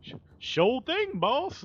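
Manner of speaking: high, slow simple-minded drawl; high dim "sure thing, boss"; dopey yes-man. Retold or imitated. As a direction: play the grinning dim coworker. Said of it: "like, that kinda look".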